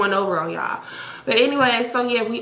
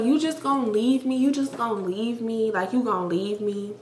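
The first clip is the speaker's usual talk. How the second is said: mock crying boyfriend; 4 dB quieter than usual. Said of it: "he started crying, but, like, it was, like, crying noises".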